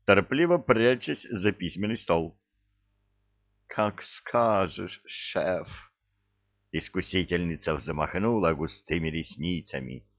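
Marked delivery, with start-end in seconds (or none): 3.7-5.7 sultry. Acted. Seductive secretary teasing boss.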